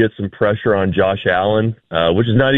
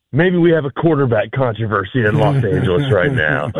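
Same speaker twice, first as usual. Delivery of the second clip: sarcastic. Shown as a demonstration. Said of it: "I'm being sarcastic for anybody that can't tell".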